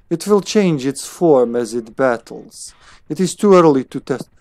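put-on German-accented scientist; attempted German accent. Player reading scientist's lines, attempted German accent. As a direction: try a German accent, not quite landing. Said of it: "supposed to have a German accent".

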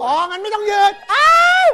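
loud high burst of surprise; shocked yelp of realisation; surprised shout. Real, not acted. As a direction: blurt it out, caught off guard. Hears he is in boxers.

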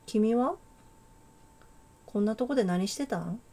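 put-on a light, amateur Kansai accent; casual Kansai-dialect girl, lightly voiced. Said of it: "関西弁風に喋るか。". (軽めの関西弁)

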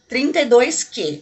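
"Trinta e dois Q" spelled out slowly, each part distinct; slow dictation. Shown as a demonstration. Vlogger dictating the shade number for viewers to note, slowly. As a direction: say "Trinta e dois Q" slowly so they can write it down. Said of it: "Anota aí".

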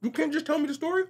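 high, exasperated complaint; exasperated pitch. Retold or imitated. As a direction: raise your voice high in disbelief. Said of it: "And you're like".

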